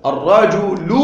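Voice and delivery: الرجل ending in a clear -u, ar-rajulu; pronounced damma. Shown as a demonstration. Teacher pointing out the lām's vowel, الرجل as ar-rajulu. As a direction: sound out the "lu" closing الرجل. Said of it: "ننطق ضم على اللام".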